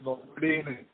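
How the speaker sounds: choppy, breaking phone line; words chopped up by a glitchy connection; robotic call audio. Real, not acted. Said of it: "your audio is breaking".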